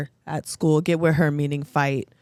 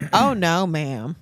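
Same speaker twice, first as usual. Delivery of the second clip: put-on clerk's refusal, falling steeply in pitch; mock sassy postal worker; imitating the clerk; much slower than usual. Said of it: "These accents are good".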